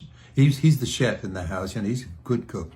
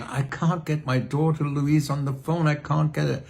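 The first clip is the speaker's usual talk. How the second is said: higher-pitched mock complaint; lightly hammed-up grumbling; retold moaning; 5 semitones higher than usual. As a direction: imitate your own moaning and groaning. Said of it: "I was moaning and groaning".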